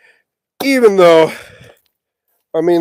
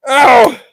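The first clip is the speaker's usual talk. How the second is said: high, loud "ow"; pained yelp; 7 semitones higher, 6 dB louder than usual. Real, not acted. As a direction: yelp out in sudden pain. Hurts himself while working.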